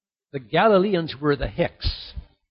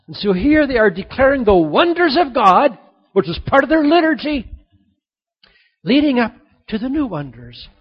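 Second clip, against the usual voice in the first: high, loud preacher's proclamation; sermon swelling to full voice; fervent preaching; 7 semitones higher, 7 dB louder than usual. Acted. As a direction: declare the wonders with fire. Preacher rising again.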